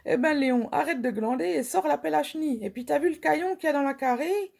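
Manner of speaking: a hint of a rustic wife telling Léon off; scolding country wife. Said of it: "et la Marie répondrait".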